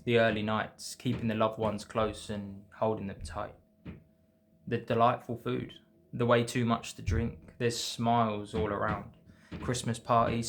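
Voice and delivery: measured, rhythmic poem reading; poem recitation. Acted. Poet reading festive poem to viewers, measured recitation. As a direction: read it line by line with short pauses.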